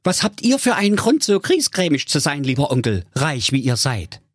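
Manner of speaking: high, quick character voice; high-voiced, nimble comeback; nephew's retort. A narrator's reading. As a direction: answer back pertly as the cheerful nephew.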